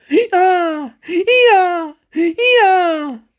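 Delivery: high, loud donkey bray. Acted. The two boys turned donkeys, braying in chorus. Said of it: "ragliando sonoramente".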